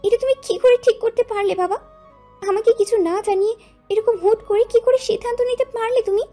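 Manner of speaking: high, loud daughter's outcry; shouted protest. A narrator's reading. Mitu jumps up to challenge her father's decision, shouting. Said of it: "চিৎকার করে বলে উঠল".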